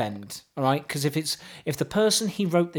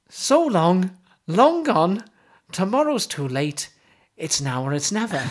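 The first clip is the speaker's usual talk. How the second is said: Welsh accent; 4 dB louder than usual. Shown as a demonstration. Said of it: "Are you gonna do it with the accent?".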